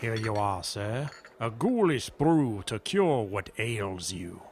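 slow, ominous butler voice; a hint of a sinister servant; creepy butler. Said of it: "I know that creepy butler is, like, your whole thing".

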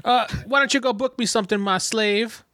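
haughty Count. Acted. Count orders Cade around.

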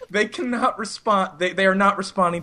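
mock-formal high-pitched report; nervous high voice. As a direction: imitate a rattled caller, word by word. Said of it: "ten octaves higher than it normally is".

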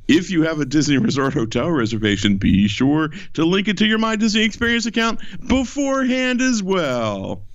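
overselling announcer voice, pitch swinging; salesman announcer. Acted. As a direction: sell it as hard as you can. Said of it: "I'll do it like normal".

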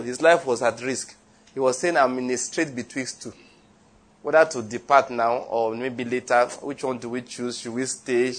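quiet musing. Retold or imitated. Paul in jail pondering life or death, softly. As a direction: think it over quietly to yourself. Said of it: "Paul in jail".

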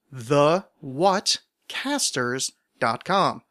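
the what casters dot com, said slowly word by word; slow, spelled-out plug. Shown as a demonstration. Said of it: "you can go to the what casters dot com".

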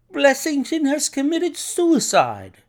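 high, loud, slow and aghast; distressed announcement. A narrator's reading. Horrified doctor telling Holmes of the suicide, high distressed cry.

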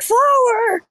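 high, loud indignant yell of the word; outraged shout. Retold or imitated. Imitating Gaines yelling at someone over tortillas. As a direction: bark it out, appalled. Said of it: "and you're like".

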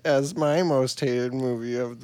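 lightly voiced old lady, low and mocking. Co-host mocking what counts as a movie, lightly voiced old lady. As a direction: mimic your co-host with a hint of old lady. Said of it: "Is that like an old lady voice?".

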